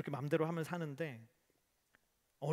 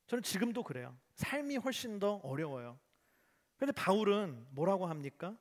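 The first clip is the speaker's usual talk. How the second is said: normal talking voice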